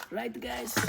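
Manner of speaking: high playful question; mock high voice. Asking viewers to agree, high voice.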